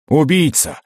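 accusing shout of murderer. Acted. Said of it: "закричал вставший на ноги Илио".

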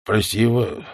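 halting, apologetic elder; lightly voiced old soldier. A narrator's reading. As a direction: plead haltingly, with pauses. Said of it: "сказал пожилой боец". (виновато, с паузами)

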